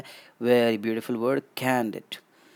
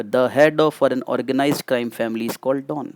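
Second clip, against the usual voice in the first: slow definition; much slower than usual. Shown as a demonstration. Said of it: "teacher defines slowly".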